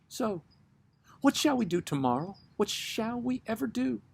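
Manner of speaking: high, anxious pleading voice; a restless woman begging to be answered; nervous woman. Acted.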